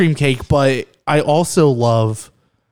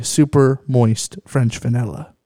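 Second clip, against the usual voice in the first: slow, mildly fancy product name; lightly put-on fanciness; mock fancy; slower than usual. Shown as a demonstration. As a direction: linger on it as if it were fancy. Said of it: "If you wanna get fancy".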